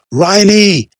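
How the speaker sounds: high, loud desperate shout; desperate yell of Riley; shouted name. Acted. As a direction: scream his name across the field. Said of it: "Jemand schrie seinen Namen".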